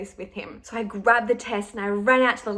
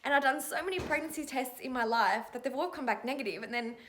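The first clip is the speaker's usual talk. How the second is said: high, laughing through tears; giddy, tearful joy; real excited crying; 4 semitones higher, 5 dB quieter than usual. Real, not acted. Woman filming herself right after the test, laughing through tears. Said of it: "I'm so excited".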